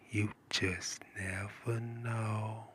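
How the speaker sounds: very slow and soft; slow drawn-out catchphrase. Acted. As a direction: drag each word out slowly. Catchphrase repeated.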